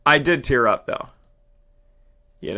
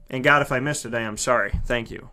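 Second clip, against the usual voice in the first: quiet, lower apology to God; soft aside to God; 8 semitones lower, 7 dB quieter, faster than usual. Real, not acted. Apologizing to God for a missed day, quiet. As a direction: murmur a quick sorry upward. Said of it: "aside to God".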